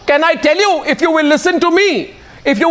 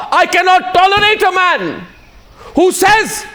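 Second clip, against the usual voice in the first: higher, heated, punching each phrase; indignant outburst; 3 semitones higher than usual. Real, not acted. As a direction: condemn it with rising outrage. Anchor's impassioned condemnation, voice raised. (ऊँची, गुस्से भरी आवाज़ में)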